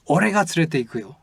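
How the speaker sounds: 俺が stressed, the rest said quickly; 俺が said with a strong English-style stress. Shown as a demonstration. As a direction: lean hard on 俺が to show who does it. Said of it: "maybe we can say".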